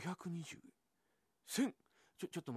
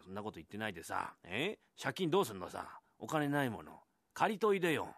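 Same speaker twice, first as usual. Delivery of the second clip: nagging wife; 4 semitones lower than usual. Acted. Wife presses husband about debt.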